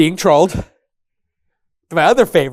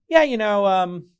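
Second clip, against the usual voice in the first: put-on defensive Stanford kid. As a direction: play the defensive Stanford grad, pitch up. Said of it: "the Stanford kids are just like".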